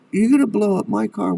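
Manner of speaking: high, incredulous challenge; outraged parent. Acted. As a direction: throw the threat back in disbelief. Outraged parent questions the threat.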